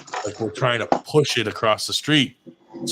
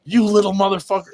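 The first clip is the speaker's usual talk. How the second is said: higher, louder imitation of a furious man; hammed-up angry shout after the kids; mock furious yell; 9 semitones higher, 4 dB louder than usual. Man fallen in the box yelling at fleeing kids, mock furious. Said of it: "He was, like, so fucking mad".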